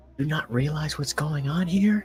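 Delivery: whispered. Walking deeper in, a character questions someone, in a whisper. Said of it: "lower my voice to a whisper".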